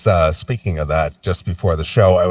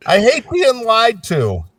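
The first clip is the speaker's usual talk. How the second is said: high, slow huffy complaint; mock indignation; slower than usual. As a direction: whine it like the comic ranting. Retelling Stanhope's rant.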